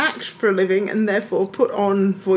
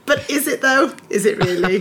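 sceptical; 4 semitones higher, 3 dB louder than usual. Retold or imitated. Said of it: "I'd be like".

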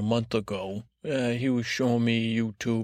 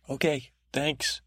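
slow, whispered acknowledgment; whispered thanks; 3 semitones higher, slower than usual. Acted. Podcast guy leaving his guest to it, whispered. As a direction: whisper it while backing out of the conversation.

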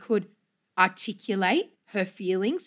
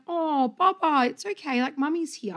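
put-on soothing a crying toddler; 5 semitones higher than usual. Mother comforting her crying baby, tender and high. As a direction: coo comfort to a little one. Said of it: "I was really like".

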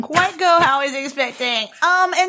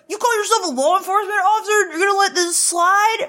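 higher, fast mock tough-guy challenge; higher, fast mock indignant cop; mocking Buck; 4 semitones higher, faster than usual. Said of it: "Buck is all like".

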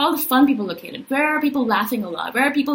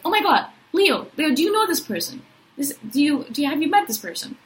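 eager calling out; 6 semitones higher than usual. Retold or imitated. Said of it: "I'm like".

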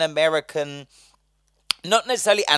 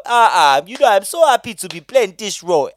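mock acting a role; 3 semitones higher, 6 dB louder than usual. Sarcastically imagining what the actor should have said, mock performance. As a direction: exaggerate a happy actor's put-on voice. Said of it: "didn't come on and go".

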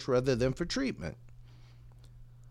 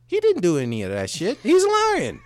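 louder, pitch jumping up on lying; exasperated punchline; 4 semitones higher, 5 dB louder than usual. Acted. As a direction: blurt out the truth. Owner's punchline.

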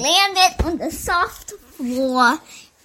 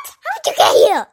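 surprised; 10 semitones higher, 5 dB louder, faster than usual. Acted. Character surprised by arrival.

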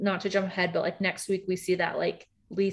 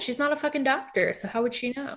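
indignant; 7 semitones higher than usual. Real, not acted. Indignant rant about Mary.

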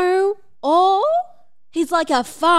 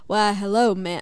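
put-on American accent; 3 semitones lower than usual. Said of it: "I don't know why he's American".

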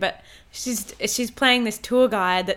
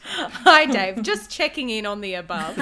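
politely impatient. Acted. Mock corporate email voice.

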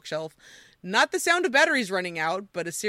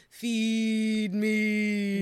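slow groaning Furby. Retold or imitated. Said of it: "a deep, slow voice groaning".

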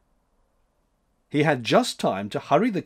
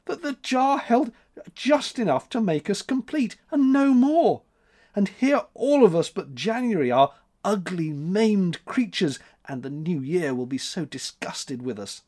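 high, plaintive wail; sobbing; 7 semitones higher than usual. A narrator's reading. April laments being left maimed, sobbing. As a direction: wail high, sinking at the end. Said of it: "sobbed April".

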